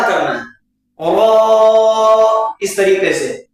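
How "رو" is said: رو with rounded lips, thick; rounded heavy ro. Shown as a demonstration. Teacher models a rounded, heavy رو. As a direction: round the mouth for رو. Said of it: "منہ کو اپنے جو ہے گول کرنا ہے اور موٹا".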